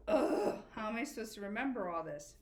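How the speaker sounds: exasperated groan then fast whine; mock student complaint. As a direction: play the fed-up pupil, hammed-up. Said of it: "you're probably saying".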